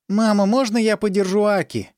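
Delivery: put-on high childish voice, repeating on cue; a small girl echoing obediently; parroting little girl. Little daughter parrots the nurse's request in a high childish voice. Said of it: "как попугай, повторила Фусако".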